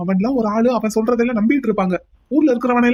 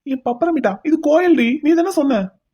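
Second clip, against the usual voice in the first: playful teasing; 4 semitones higher, slower than usual. Acted.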